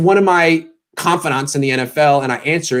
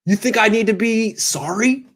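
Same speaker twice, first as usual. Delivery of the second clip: mock player voice; 4 semitones higher than usual. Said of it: "He's like".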